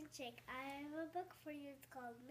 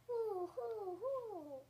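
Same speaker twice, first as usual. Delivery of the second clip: owl hoot; 6 semitones higher, 4 dB louder, much slower than usual. Acted. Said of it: "He can sound like an owl".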